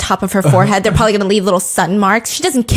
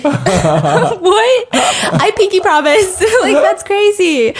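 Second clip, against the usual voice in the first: laughing; 9 semitones higher, much slower than usual. Real, not acted. Laughing at the show's absurdity.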